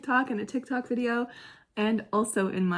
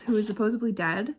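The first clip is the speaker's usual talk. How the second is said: ordinary delivery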